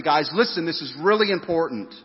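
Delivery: Jesus urging the disciples to listen, firmly. Acted. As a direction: grab their attention, firmly. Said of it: "he's saying this really firmly".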